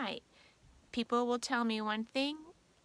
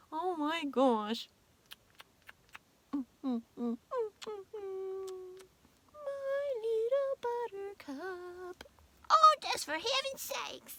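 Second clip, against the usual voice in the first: high slow mock sigh of despair; exasperated husband; 9 semitones higher, slower than usual. Wife imitating husband's exasperation over contract. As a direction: drag it out like he gives up. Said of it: "And he's like".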